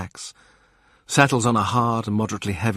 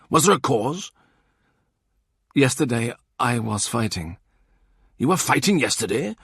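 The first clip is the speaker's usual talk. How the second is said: lightly raised voice for Morgan; Morgan voiced; 3 semitones higher than usual. Morgan interrogates Thomas, lightly raised voice. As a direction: question him like a suspicious in-law.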